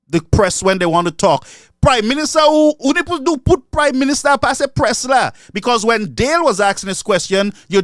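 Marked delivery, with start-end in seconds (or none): 1.8-5.3 raised, higher voice hailing the prime minister; calling out. Real, not acted. Commentator calling out the prime minister, raised and high-pitched.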